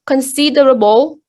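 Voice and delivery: considerable stressed on SID; con-SID-erable, second syllable strongest; stress third from end. Shown as a demonstration. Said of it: "The stress fall on the third syllable".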